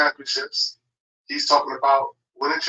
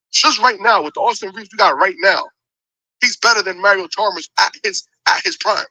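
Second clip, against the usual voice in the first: heated; 4 semitones higher, 3 dB louder than usual. Real, not acted. Heated basketball argument.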